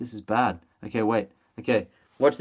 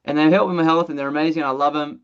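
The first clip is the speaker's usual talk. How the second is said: mock sales pitch voice; faster than usual. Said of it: "I don't know why I'm talking like this".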